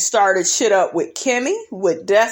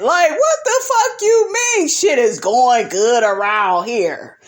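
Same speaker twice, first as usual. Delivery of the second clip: higher, exasperated worker ranting at the boss; imagined Jalen rant; 4 semitones higher than usual. Pretend. Vlogger playing Jalen venting at Marceau, exasperated and higher. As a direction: vent like an overworked employee.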